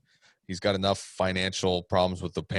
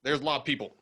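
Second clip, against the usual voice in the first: higher Southern twang; Southern accent; 5 semitones higher, 3 dB quieter, faster than usual. Acted. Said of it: "the accent that you did".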